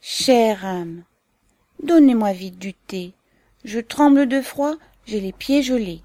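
put-on loud childish plea, pitch lifting; childlike, plaintive cry. A narrator's reading. Chilled young guest begs hostess for tea, childishly plaintive. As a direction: wail it lightly like a pleading child. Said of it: "elle s'écria d'une voix enfantine et plaintive".

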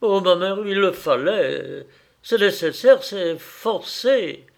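loud, high, pressing protest; urgent insistence. Acted. Son defending himself to his mother, loud urgent insistence. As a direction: insist it had to be done.

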